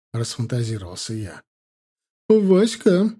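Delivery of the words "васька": loud, high call across the yard; booming female voice calling Vaska; booming woman's call. Acted. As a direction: shout his name from afar. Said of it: "зычный женский голос".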